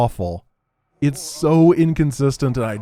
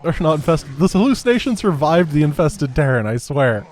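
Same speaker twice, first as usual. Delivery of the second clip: much higher, louder outraged what; exasperated at the unfair game; indignant disbelief; 6 semitones higher, 3 dB louder than usual. Real, not acted. Hallucination survived, disbelief.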